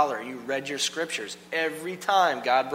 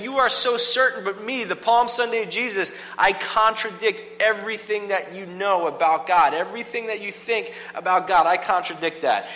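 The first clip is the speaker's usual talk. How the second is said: raised, forceful declaration; defiant Jesus; 6 semitones higher, 6 dB louder than usual. Retold or imitated. Jesus confronts the certain crowd, loud and defiant. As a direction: proclaim it high and loud, defying certainty. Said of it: "this Jesus is saying".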